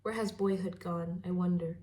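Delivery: measured poetry reading with pauses between phrases; poem recital. Acted. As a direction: read it as verse, line by line. Reads a poem aloud.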